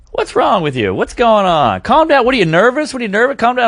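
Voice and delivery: imitated rapid-fire worried questions; nagging girlfriend. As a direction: pester like an over-worried girlfriend.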